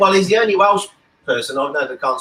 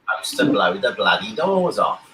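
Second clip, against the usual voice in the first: a lightly voiced Cockney film star, slow and low; Michael Caine impression; 6 semitones lower than usual. Friend does Michael Caine's famous line on the podcast, slow and lower. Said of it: "That's Michael Caine, isn't it?".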